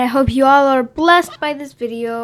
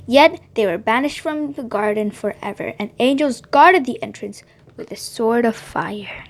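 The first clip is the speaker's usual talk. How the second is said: put-on gentle storybook reading for kids; children's story narration. A narrator's reading. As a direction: tell it like bedtime Bible story time. Reads Bible story to kids.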